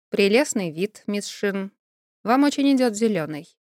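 even, deadpan delivery, no hint of a joke; perfectly flat tone. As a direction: say it dead level, no smile. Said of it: "абсолютно ровным тоном".

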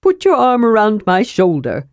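a brisk, friendly kender offering help; kender Tass voice. Acted.

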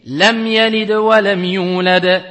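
slow recitation, the mim of lam said clearly with only a light ghunna; tajwid recitation. Shown as a demonstration. Teacher recites the example verse, slow and clear. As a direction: recite lam yalid wa lam yulad slowly, passing lightly over the mim. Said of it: "on dit".

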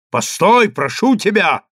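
urgent plea. A narrator's reading. Rabbi rushes after, pleading.

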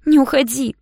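loud high cry to stay; cling and cry out; pleading shout. A narrator's reading. Yana hugging Ignat from behind, loud high plea. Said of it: "повторила Яна".

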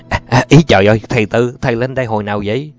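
mildly surprised, hurried greeting; flustered delight. Acted. Host greeting an unexpected guest, flustered and glad. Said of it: "Thầy mừng rỡ hấp tấp".

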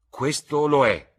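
high, loud, drawn-out objection; insistent interruption. A narrator's reading. Dorian interrupts the lord to contradict him, high and insistent. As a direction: cut in slowly and forcefully, pitched high. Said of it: "interruppe Dorian".

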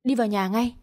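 a mild, curt shouted command; husband orders wife inside, a lightly voiced angry shout; snapped order. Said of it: "Nam quát tôi".

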